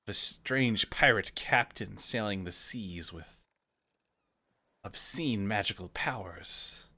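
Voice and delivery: put-on slow, lightly gruff old sailor; gruff old fisherman. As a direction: tell the rumor like an old sea dog. Merrick tells rumors.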